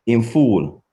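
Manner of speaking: IN FOOL said as a flat statement, falling at the end; statement intonation. Shown as a demonstration. Teacher showing students the Patois statement, falling intonation. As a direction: let FOOL drop as a plain statement. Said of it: "it means he is foolish".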